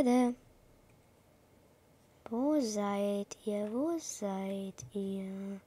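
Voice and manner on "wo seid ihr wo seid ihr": slow, softer, searching; slow, creeping whisper-voice. Acted. Hunting enemy slowly. (langsam schleichend leise)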